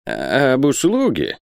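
slow, high, stretched echo; alarmed old miser. A narrator's reading. Isaac echoing the captain's request, alarmed. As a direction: question it in wary alarm.

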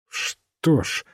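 musing doctor, weighing the idea; thoughtful. A narrator's reading. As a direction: mull it over as you say it. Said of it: "задумчиво сказал доктор".

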